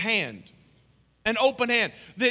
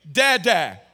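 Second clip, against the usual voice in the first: mock baby speech; 4 semitones higher, 8 dB louder than usual. Joke voicing ten-month-old baby.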